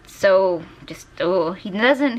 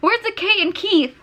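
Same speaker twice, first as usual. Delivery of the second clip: surprised; 12 semitones higher than usual. Real, not acted. Notices missing letter in drawing.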